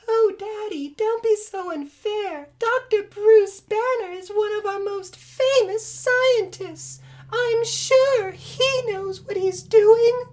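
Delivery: put-on high slow falsetto young woman. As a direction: play the sweet daughter, high. Player voices Betty in high falsetto.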